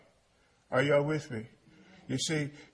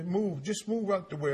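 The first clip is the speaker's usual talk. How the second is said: higher, mildly bossy acted order; impatient take-over; 4 semitones higher than usual. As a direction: push in to take over the job. Acting someone taking over, impatient.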